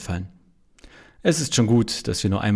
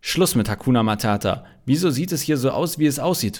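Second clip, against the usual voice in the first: more angry; 4 semitones higher than usual. Acted. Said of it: "mit deutlich mehr Ärger in der Stimme".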